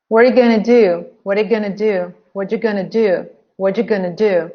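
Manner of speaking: "What are you" run together, "gonna" for going to; natural linking. Shown as a demonstration. Teacher drills everyday connected speech, natural linking. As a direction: link it smoothly into "gonna do". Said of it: "Don't sound like a robot".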